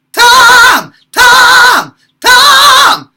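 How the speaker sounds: high loud belt with vocal fry. Shown as a demonstration. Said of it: "adding in a little bit of the vocal fry".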